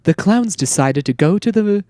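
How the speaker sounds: lightly voiced narrator; a hint of a nature documentary narrator; documentary narration. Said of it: "there's just a narration".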